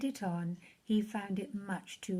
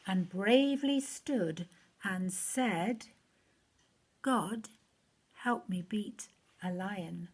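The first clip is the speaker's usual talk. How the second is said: put-on lively rhyming read-aloud for children; story reading. A narrator's reading. Reading a Bible rhyme to children, storyteller voice. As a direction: read it like a bedtime rhyme to kids.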